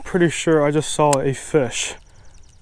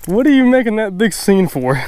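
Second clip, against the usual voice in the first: excited; 3 semitones higher than usual. Real, not acted. Fish splashing, excited outburst.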